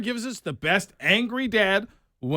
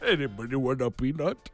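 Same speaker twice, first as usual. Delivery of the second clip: Andre the Giant impression; 6 semitones lower, 5 dB quieter than usual. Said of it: "Sounds like Andre the Giant".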